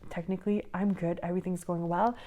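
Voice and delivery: breathless, winded speech; talking while short of breath. Real, not acted. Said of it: "Sorry, I'm out of breath".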